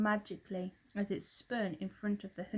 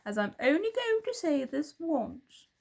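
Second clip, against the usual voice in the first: higher, louder menacing hunter voice; menacing villain; 6 semitones higher, 5 dB louder than usual. A narrator's reading. Hunter warning William with menace. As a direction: threaten him as the villain hunter.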